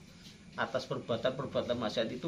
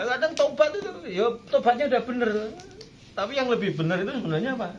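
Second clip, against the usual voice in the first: fired-up preaching; 9 semitones higher, 5 dB louder, faster than usual. Real, not acted. Preacher rising to emphatic point.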